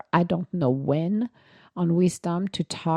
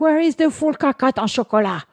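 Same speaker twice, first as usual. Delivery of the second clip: mock dismay; 8 semitones higher, 6 dB louder than usual. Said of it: "I was like".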